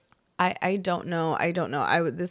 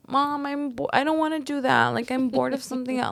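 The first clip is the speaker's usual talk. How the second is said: put-on whining child; 5 semitones higher than usual. Child whining back to mother.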